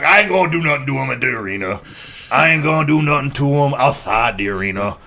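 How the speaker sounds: lightly voiced Booker T; Booker T impression. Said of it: "That was my Booker T impression".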